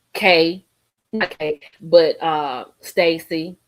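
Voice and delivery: a lightly voiced ruthless alter ego, cursing her out; a hint of the crazy-woman persona ordering her off the plane; mildly sassy alter ego telling her to get off the jet; Millicent. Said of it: "Let me just go to Millicent".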